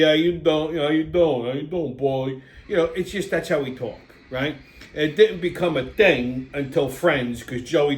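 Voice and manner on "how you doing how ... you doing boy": lightly imitated Rocky catchphrase; a hint of Stallone's Rocky, repeating the catchphrase. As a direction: toss off a light Stallone impression. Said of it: "Stallone used it in Rocky".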